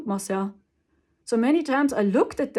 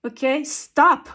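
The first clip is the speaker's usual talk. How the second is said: slow, louder, deliberate okay stop; slow firm stop; 3 semitones higher, 7 dB louder, slower than usual. Shown as a demonstration. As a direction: lay the limit down calmly and slowly. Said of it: "setting a boundary that people see".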